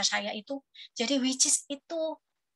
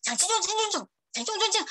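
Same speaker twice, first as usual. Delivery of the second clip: mock Mandarin babble; 7 semitones higher than usual. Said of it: "Waktu denger listening nih".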